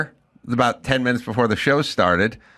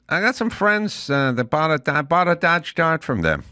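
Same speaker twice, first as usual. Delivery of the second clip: Jay Leno; 5 semitones higher than usual. Retold or imitated. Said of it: "And he goes".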